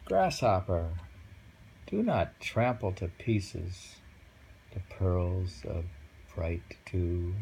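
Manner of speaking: slow, measured haiku reading; poem recital. Acted. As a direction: read it gently, word by word. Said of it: "And the poem says".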